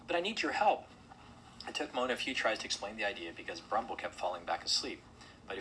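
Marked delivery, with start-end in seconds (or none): 0.1-0.9 high nervous plea; stammering plea. A narrator's reading. Mona asks the bear for help, high nervous plea. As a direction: plead in a small character's high voice. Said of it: "stammered Mona".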